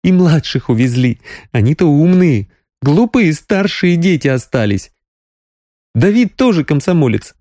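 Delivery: mock your own foolishness; rueful young woman. A narrator's reading. Sonya sighs about family.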